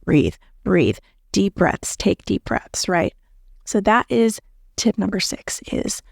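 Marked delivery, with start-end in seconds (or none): 0.0-2.9 mock breathing coach. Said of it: "you constantly hear people say".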